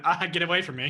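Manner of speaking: half-shouted mock complaint; hammed-up cry of annoyance; mock recoil. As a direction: push them away with a playful yell. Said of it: "Ah, it goes from".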